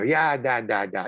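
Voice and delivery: lightly done comedy Russian accent; a hint of jokey, improvised Russian; improv Russian accent. Shown as a demonstration. Actor showing the only Russian accent he can do, lightly comic Russian. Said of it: "improv Russian accent".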